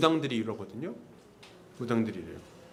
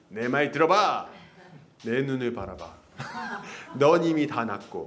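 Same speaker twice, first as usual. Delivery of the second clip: put-on Heo Kyung-young; 5 semitones lower than usual. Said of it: "허경영 씨 보세요. 얼마나 확신 있는지".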